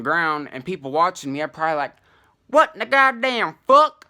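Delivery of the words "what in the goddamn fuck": higher, louder shocked bystander. Retold or imitated. Passers-by watching him dig, shouting in disbelief. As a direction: blurt it out, appalled. Imagined onlookers' reaction.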